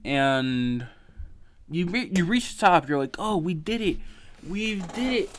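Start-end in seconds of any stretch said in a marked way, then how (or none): 3.2-5.3 rising higher with each "we did it"; mock-celebrate reaching the summit, climbing in pitch; triumphant cheer. Triumphant retold reaching the top.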